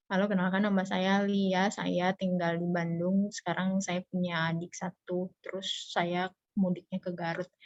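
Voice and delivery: soft, flat-paced dull self-introduction; monotone mumble. Shown as a demonstration. Teacher demonstrating bad delivery, mumbling softly. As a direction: drone it like a bored speaker. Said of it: "kita kan nggak bisa kayak gini".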